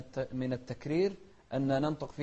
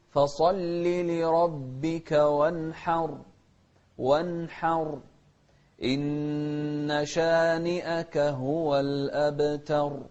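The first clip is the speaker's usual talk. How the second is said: slow measured tajweed chant; slow Quran recitation; 4 dB louder, much slower than usual. Shown as a demonstration. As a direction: recite slowly with drawn vowels.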